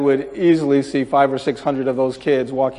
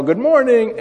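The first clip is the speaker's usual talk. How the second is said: quick raised-pitch greeting call; mock yell; 8 semitones higher than usual. Jogger at their sliding door, mild retold yell. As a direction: lightly imitate a yelled hello, pitched up. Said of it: "and yell".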